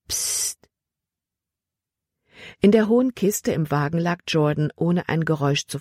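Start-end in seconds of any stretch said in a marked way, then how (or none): 0.1-0.7 soft voiceless "psst"; whispered hush. A narrator's reading. Caleb cutting off Libby's questions, whispered hush. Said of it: "flüsterte er".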